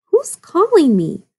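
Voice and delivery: put-on puzzled old wolf wondering aloud. A narrator's reading. Old wolf voiced in story.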